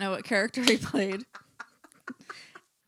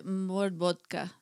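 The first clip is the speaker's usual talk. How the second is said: put-on slow, playful Russian accent; much slower than usual. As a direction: drag it out like a mock Russian. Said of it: "in your best Russian accent".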